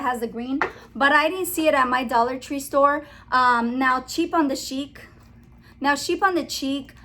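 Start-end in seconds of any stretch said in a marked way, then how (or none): 4.0-5.1 "chic" and "cheap" swapped round; name said wrong. Real, not acted. Vlogger fumbling another channel's name, said wrong. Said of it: "without saying it the wrong". 6.0-6.9 "sheep" first, "cheek" last, sounds swapped; name said wrong. Real, not acted. Vlogger retrying another channel's name, said wrong. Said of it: "without saying it the wrong".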